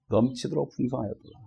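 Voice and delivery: preacher repeating the verse softly to savor it. Shown as a demonstration.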